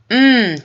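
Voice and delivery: pleased mumbled mmm. Acted. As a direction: hum with delight at the taste. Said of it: "John mumbled".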